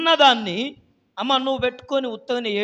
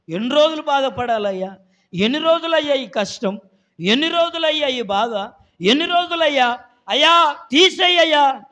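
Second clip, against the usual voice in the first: imitating a pleading prayer, rising louder; voicing a believer crying out in prayer, pleading; 3 semitones higher, 5 dB louder than usual. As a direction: beg the Lord, building. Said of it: "అని నువ్వు ప్రార్థన చేయగలిగితే".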